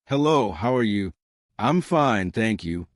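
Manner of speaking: lightly put-on English accent. Shown as a demonstration. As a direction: demonstrate a crisp learner's take on an English accent. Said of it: "but keep that accent".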